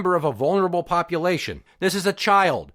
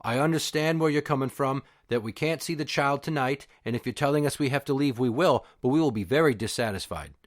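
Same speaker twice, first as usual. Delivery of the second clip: mock calm; 3 semitones lower, 4 dB quieter than usual. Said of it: "by very calmly saying".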